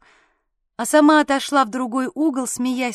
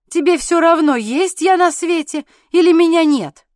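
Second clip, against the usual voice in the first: jealous rant; 4 semitones higher, 7 dB louder than usual. A narrator's reading. Husband's jealous rant goes on.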